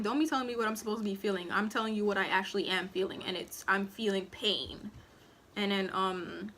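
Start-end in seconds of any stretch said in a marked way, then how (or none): 0.0-4.9 inner retort. Retold or imitated. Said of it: "in my head, I'm like".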